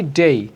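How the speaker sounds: "day" with a gliding ay, drawn out; full DAY ending. Shown as a demonstration. Teacher correcting the last syllable of weekdays, gliding "day". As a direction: say "day" as "dey-ee", not a short "de". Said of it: "লাস্টে কিন্তু আমাদের ডে উচ্চারণ হবে না".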